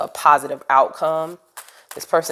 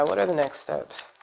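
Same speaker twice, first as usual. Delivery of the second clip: 1 softer repeat; 6 dB quieter than usual. Shown as a demonstration. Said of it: "repeated softer".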